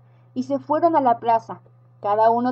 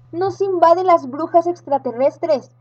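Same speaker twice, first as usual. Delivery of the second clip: frightened grown-ups; 4 semitones higher than usual. Acted. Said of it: "decían los grandes".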